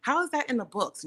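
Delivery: high incredulous question at normal volume; retold shock. Patient asks doctor how textbooks say this, retold high-pitched shock. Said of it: "And I was shocked".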